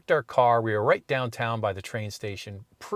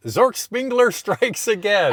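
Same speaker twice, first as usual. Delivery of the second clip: high, loud, slow proclamation with a laugh; triumphant catchphrase; 9 semitones higher, 7 dB louder, slower than usual. Retold or imitated. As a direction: crow it out of the car window. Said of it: "I stick my head in and I go".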